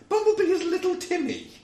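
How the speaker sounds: high, loud, laughing voice; amused. Real, not acted. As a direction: squeak it through rising laughter. Amused at his own casting idea.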